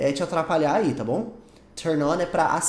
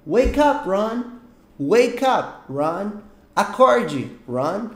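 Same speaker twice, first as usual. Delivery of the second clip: raised, higher wake-up call; calling out to wake someone; 3 semitones higher, 3 dB louder, much slower than usual. Acted. To a friend asleep till afternoon, calling out. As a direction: call out to rouse a sleeper. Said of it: "eu falo".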